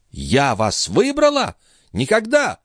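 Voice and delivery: high, slow, then shrieking refusal; high, indignant girl; scornful denial. Acted. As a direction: reject the marriage outright. Lorenza denies marriage.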